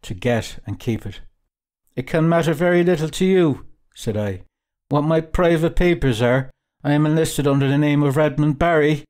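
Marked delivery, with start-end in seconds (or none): 2.0-3.7 higher-pitched indignant retort; mildly heated, insistent rebuff; defiant. Acted. Traveller refusing the captain his papers, defiant. 4.9-9.0 raised, insistent protest; mildly indignant, higher voice; defiant. Acted. Traveller guarding his private papers from the captain, defiant.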